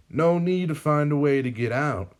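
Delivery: lightly voiced gloating villain; villain appearing at the hero's cell, smug; villain Sam. A narrator's reading. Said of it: "Sam says".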